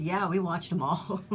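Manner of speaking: mock insistence breaking into a laugh; amused retort. Real, not acted. Wife retells a running joke about westerns, laughing. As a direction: laugh on the end of the line.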